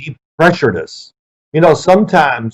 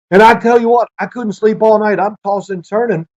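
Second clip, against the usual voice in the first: coach's complaint; 7 semitones higher than usual. Retold or imitated. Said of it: "He goes".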